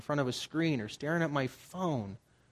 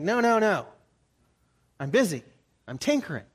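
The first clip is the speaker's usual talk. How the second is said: louder, brushing God off; mock dismissive brush-off; 5 semitones higher, 7 dB louder than usual. Believers answering God with a brush-off, dismissive. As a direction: wave off the offer like a busy child. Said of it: "And we're like".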